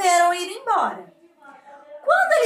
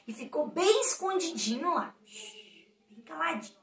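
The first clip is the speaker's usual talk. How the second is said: softer, hushed storytelling; 8 dB quieter than usual. A narrator's reading. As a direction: drop the voice as if not to be heard. Narrator illustrates hidden silent frog. (narrando baixinho)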